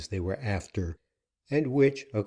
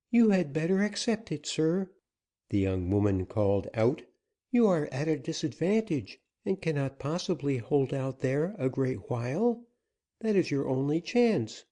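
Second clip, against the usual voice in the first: put-on higher, earnest young woman's plea; higher-voiced woman anxiously pleading; 6 semitones higher than usual. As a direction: soften him, she begs not to be scolded. Susana urges Dick.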